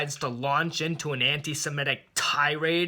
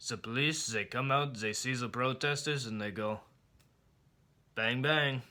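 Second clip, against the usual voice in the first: dentist's voice; 3 semitones lower, 7 dB quieter than usual. Retold or imitated. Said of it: "he goes".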